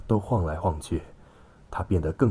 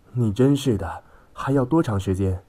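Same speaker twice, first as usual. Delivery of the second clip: higher, louder, impatient huff; exasperated; 5 semitones higher, 4 dB louder than usual. A narrator's reading. Wife stomps off to find staff, exasperated. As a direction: demand it with exasperation. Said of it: "他跺着脚去找员工时说".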